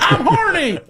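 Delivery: put-on high, laughing New England accent; hammed-up Boston accent with a laugh; old New England accent. Mock New Englander about Brady.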